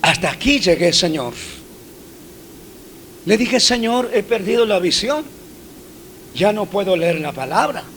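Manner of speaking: soft, broken plea to the Lord; a pastor retelling his whispered, tearful prayer on the mountain. Retold or imitated. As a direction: pray quietly as if near tears. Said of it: "llorando como un niño".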